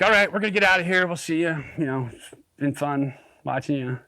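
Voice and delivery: high, quick farewell; mock breezy goodbye. Leaving Craig's hole, quick and breezy. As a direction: rush out a cheery goodbye. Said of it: "I'm like".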